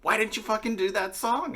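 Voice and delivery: high-pitched imitation of an upset fan; mock upset. Imitating the fan complaining about yesterday's song, mock upset. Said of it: "she was upset".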